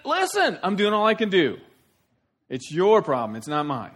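high, loud acted protest; exasperated husband. Jacob answering his screaming wife, high exasperated protest. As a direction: plead back, starting very high. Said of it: "He's saying".

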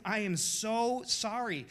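slow apology with a slight lift; husband apologising to his wife, slow. Retold or imitated. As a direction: plead it gently to your wife. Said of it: "To my wife".

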